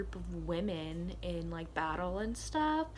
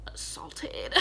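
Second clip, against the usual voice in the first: hushed, voiceless word; whispered word; 3 dB quieter than usual. Real, not acted. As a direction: drop it to a whisper. Sensitive word dropped.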